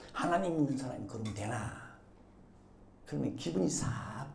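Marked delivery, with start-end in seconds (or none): 0.1-1.7 low, soft mock reproach; chiding bystander. Bystander to someone already sorry, low soft reproach. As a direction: lightly imitate a pious needling remark. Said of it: "옆에서".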